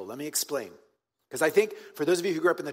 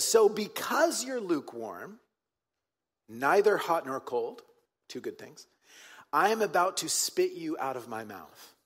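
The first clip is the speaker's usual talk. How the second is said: Jesus quote. Acted. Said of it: "Jesus says".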